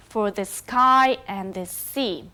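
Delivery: "for the sky and the sea" with stress landing on "sky" and "sea"; anapestic stress. Shown as a demonstration. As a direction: pass lightly over "for the" and "and the", stress "sky" and "sea". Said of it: "where the stress is in the last syllable".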